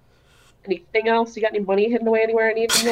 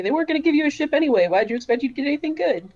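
teasing brother; faster than usual. Pretend. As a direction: needle her like a teasing brother. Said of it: "you'd tease me about it".

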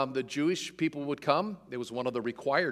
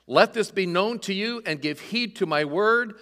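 louder, higher proclamation; raised voice; 5 semitones higher, 6 dB louder than usual. Acted. Peter addressing the crowd in Jerusalem, raising his voice to proclaim. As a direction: call out to the whole crowd. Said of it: "raised his voice".

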